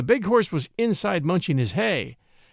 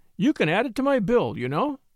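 sugary, sweet-toned delivery; 4 semitones higher than usual. A woman answers mr. crosby after he helps her down the ladder, sweetly. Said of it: "she said sweetly".

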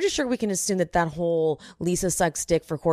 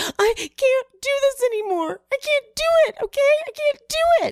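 freaking out, pitched very high; 5 dB louder than usual. Imitating a castmate freaking out and crying in a bathroom: imitating Jen freaking out. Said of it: "sounded like her".

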